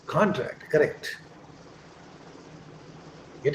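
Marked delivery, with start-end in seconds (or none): 0.1-0.7 "Contract" as CON-tract; "Contract" with stress on CON, as a noun; first-syllable stress. Shown as a demonstration. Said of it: "then it will be on con".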